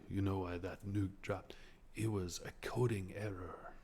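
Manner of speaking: a hint of a calm monk explaining; Buddhist monk. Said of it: "it's all very, um, Buddhist monk".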